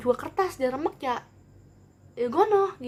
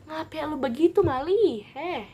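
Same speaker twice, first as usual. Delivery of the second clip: mild scolding grandma; 5 semitones higher, 4 dB louder, slower than usual. Retold or imitated. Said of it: "nenek gue kesel kan".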